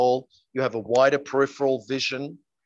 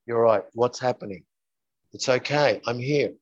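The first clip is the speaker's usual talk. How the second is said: very calm; 3 semitones lower than usual. Acted. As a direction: speak as a calm parent steadying a child. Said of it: "you're very calm and you say".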